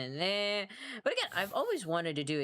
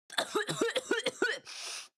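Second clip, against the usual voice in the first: high coughing noises as mock Elvish; a string of high, choked coughs; attempted Elvish. Streamer tried to speak Elvish and started coughing, attempted Elvish. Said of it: "That's my attempt at elvish".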